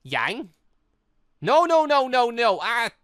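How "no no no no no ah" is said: loud, high repeated no; frantic shouting. Acted. Yang raging at her father, loud high shouting. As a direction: shout it out as she loses control.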